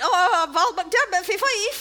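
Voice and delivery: slow, drunken Fife impression; slurring it slowly like a merry Fifer; Val McDermid drunk. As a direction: tease a tipsy friend's Fife accent. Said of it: "the more you drink, the more you sound like that".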